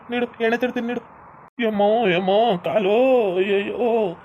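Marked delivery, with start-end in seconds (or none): 1.6-4.1 drawn-out wails of a hurt leg; acted pained wailing; crying in pain. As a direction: plead and moan as the leg is handled. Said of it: "ಯಾಕೆ ಹಿಂಗ್ ಅಳ್ತಿ".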